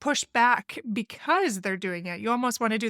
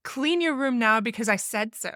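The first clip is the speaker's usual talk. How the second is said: bossy; 2 semitones higher, 3 dB louder than usual. Shown as a demonstration. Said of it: "very bossy, sassy kind of like".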